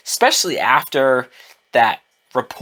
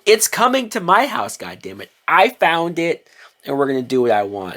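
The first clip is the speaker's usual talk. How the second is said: standing his ground; 2 semitones higher than usual. Retold or imitated. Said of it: "Pete stood his ground".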